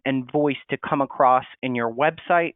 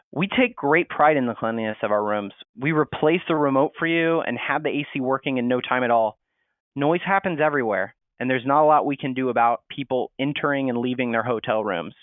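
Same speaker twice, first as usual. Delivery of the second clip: defensive. Shown as a demonstration. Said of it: "in that defensive hotel voice".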